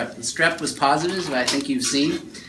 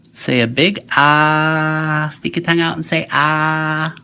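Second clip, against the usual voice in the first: whispering; 2 semitones higher, 6 dB louder, slower than usual. Real, not acted. Asking child to open mouth.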